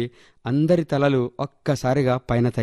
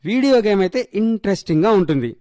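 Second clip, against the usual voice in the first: put-on high-pitched child grumbling to mummy; complaining little girl; 6 semitones higher than usual. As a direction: whine about your sister in a child's high voice. Voices complaining eight-year-old. (అమ్మకు ఫిర్యాదు చేసే చిన్నపిల్ల గొంతు)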